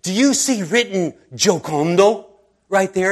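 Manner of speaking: loud, high sarcastic challenge; angry driver mocking the speaker, loud and high; mock indignant Italian. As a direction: jab the question at him. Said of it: "He said".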